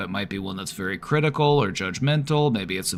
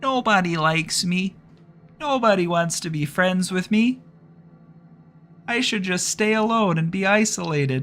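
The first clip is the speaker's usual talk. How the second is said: very high-pitched put-on voice; 10 semitones higher than usual. Giving depressed self-talk a different voice: Jordan Peterson voice. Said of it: "give it Jordan Peterson's voice".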